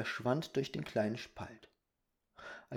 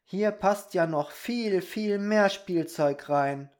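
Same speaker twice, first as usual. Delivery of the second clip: amazed Peter; 6 semitones higher, 6 dB louder, slower than usual. Acted. Peter marvels at empty room.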